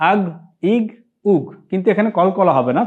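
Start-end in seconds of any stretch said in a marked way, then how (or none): 0.1-1.4 "আগ, ইগ, উগ" heavy, without a bounced ending; thick gh closing "আগ, ইগ, উগ", no echo; thick ghayn, no qalqalah. Shown as a demonstration. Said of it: "তবে মোটা করে পড়তে হবে". (কলকলা ছাড়া মোটা করে "আগ, ইগ, উগ")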